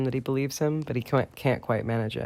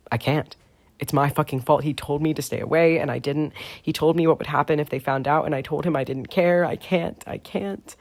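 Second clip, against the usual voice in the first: breaking down; 3 semitones higher than usual. Acted. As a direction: panic spilling into a choked whisper. James breaking down.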